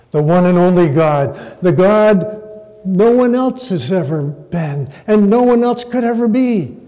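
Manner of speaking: emphatic preacher. Acted. Preacher emphasizing God in this verse, building emphatically. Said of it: "Some preachers will say".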